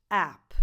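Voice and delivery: "app" with the vowel of "cat"; correct APP vowel. Shown as a demonstration. Teacher showing Italian learners the word, "app" with cat vowel. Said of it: "the correct vowel is a".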